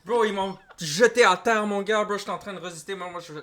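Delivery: loud, high-pitched mock bragging to the boys; hammed-up tough-guy boast; boastful arrestee. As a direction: play the arrested guy hyping up his story. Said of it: "Il est comme, yo".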